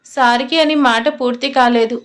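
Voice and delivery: ordinary delivery, nothing marked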